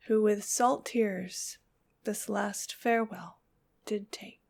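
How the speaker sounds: measured, solemn poetry recital with pauses between phrases; poem reading. Acted. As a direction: read the poem softly and evenly, letting each line settle. Reads the poem aloud.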